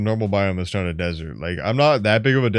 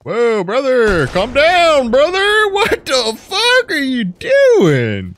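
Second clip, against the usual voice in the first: much higher, louder, drawn-out panic; panicked yelling; 7 dB louder, much slower than usual. Real, not acted. Gamer yells at a mob rushing him, panicked high shouting. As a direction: yell in alarm at the thing attacking you. Creature attacks him mid-chat.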